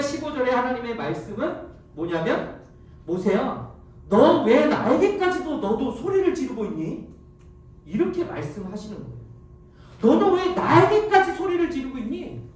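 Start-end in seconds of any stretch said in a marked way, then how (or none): 3.1-7.1 scolding. Acted. God scolds Moses. 10.0-12.5 higher, louder scolding question; a stern God rebuking Moses; stern rebuke. Acted.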